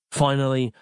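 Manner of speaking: ordinary delivery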